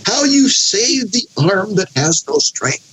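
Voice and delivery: slow, high mock compliment. Job mock-praising his friend's rescue, sarcastic. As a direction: draw out the false praise. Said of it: "He's mocking".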